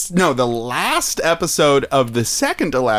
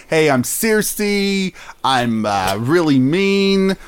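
mock Cersei voice; slower than usual. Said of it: "we gotta do these voices".

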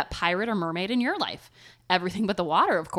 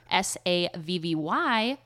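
spelling it out. Shown as a demonstration. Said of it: "spelling anchor is harder than it looks".

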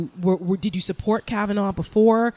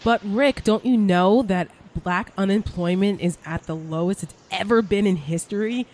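sarcastic gushing, raised and emphatic; mock Trump booster; 2 semitones higher, 4 dB louder than usual. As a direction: parody a true believer reeling off glowing claims.

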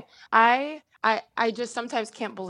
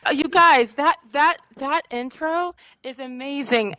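choked up; 7 semitones higher, 4 dB louder, slower than usual. Real, not acted. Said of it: "I'm not supposed to cry".

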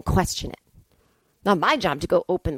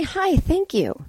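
sugary polite greeting; 9 semitones higher, much slower than usual. Retold or imitated. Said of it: "I say".

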